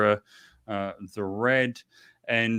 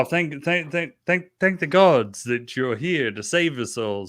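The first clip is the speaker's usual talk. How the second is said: stammered, higher-pitched mock gratitude; grateful relief; 4 semitones higher, 5 dB louder than usual. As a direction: trip over the thanks in staged relief. Game master voices grateful council.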